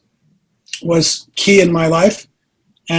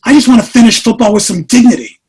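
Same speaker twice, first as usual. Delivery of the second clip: exasperated whine; 3 semitones higher, 5 dB louder than usual. Retold or imitated. Retold frustrated reply to wife.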